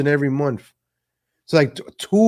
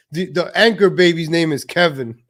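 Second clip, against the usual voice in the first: laughing. Real, not acted. Laughing at his own joke.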